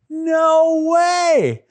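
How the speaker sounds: high, drawn-out exclamation; emphatic denial. Pretend. Answering whether disciples forgot that night, emphatic denial. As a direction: call it out with big conviction.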